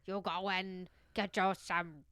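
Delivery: slow, hammed-up Irish accent; badly faked Irish brogue, drawn out. Podcaster voicing the Irish cook, bad Irish accent. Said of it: "She had an Irish accent".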